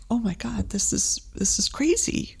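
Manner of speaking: mock disbelief. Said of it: "And I just was just like".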